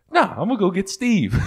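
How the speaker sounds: high, loud comic refusal; mock defiance. Retelling a comedy bit, high loud defiant threat.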